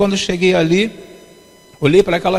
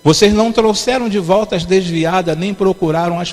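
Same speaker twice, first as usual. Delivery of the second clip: slow, measured Bible reading in separated phrases; solemn scripture reading. Acted. Preacher reading Ezekiel's rebuke to the church, solemn and measured. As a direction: read out the rebuke slowly, phrase by phrase. Reads Bible verse aloud to congregation.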